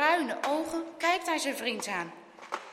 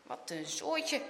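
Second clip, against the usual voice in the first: slow, soft grumble; quiet, drawn-out mumble; muttered; 2 semitones lower, 7 dB quieter, slower than usual. A narrator's reading. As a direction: mutter it to yourself. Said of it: "mompelt Boas".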